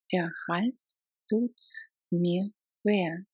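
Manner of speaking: "Der Hals tut" then "mir weh" in two parts; chunked repeat. Shown as a demonstration. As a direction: split it for learners.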